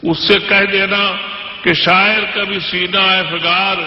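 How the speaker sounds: measured, declamatory poetry recital; stately nazm recitation. Acted. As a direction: recite each couplet with weight. Recites poem stanza.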